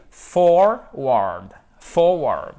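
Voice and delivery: "forward" with a strong, drawn-out first syllable; word stress demo. Shown as a demonstration. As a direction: punch FOR in "Forward", let WARD fall. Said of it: "Vous avez l'accent tonique ici". (accent tonique appuyé au début de « Forward »)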